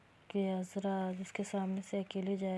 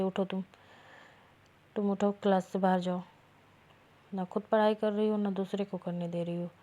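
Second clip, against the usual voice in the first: louder, stern classroom scolding; angry teacher scolding; 5 dB louder than usual. Acted. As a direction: order her out of the class, fed up. Teacher scolds chatting student.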